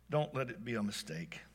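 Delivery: soft, low breathy plea under the breath; hushed prayer. Acted. Wife praying it's not a mistake, hushed plea. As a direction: pray it quietly to yourself. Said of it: "Lori whispered".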